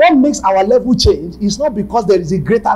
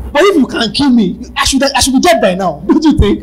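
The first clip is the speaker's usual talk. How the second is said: mocking taunt; 4 semitones higher, 4 dB louder than usual. Taunting the devil, rising excitement.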